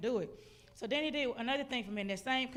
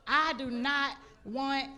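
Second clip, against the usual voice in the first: slow, forceful mock tantrum, word by word; acted-out tantrum, louder and drawn out; toddler tantrum; 6 dB louder, much slower than usual. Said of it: "like a toddler".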